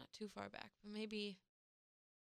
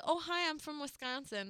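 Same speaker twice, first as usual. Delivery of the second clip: higher-pitched Wisconsin self-introduction; imitating own Wisconsin accent; 5 semitones higher than usual. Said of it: "So whenever I say".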